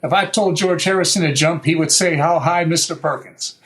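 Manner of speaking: lightly imitated Tennessee accent; retold boast in a mild Southern Tennessee accent. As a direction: put on a touch of Tennessee Southern talk. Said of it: "you know, with a Southern Tennessee accent".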